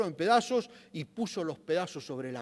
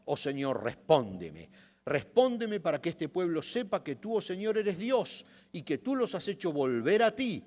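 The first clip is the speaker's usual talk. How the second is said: earnest public prayer, read aloud; prophet's plea, opening on a raised cry. A narrator's reading. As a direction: appeal to God in measured phrases. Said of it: "caminó hacia el altar y oró".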